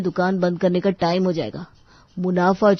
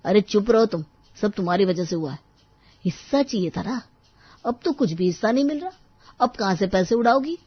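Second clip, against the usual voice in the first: angry scolding; 2 semitones higher than usual. Acted. Husband blames wife for losing their share, scolding angrily. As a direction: tell her off accusingly. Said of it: "तुम मुझ पे क्यों चिल्ला रहे हो".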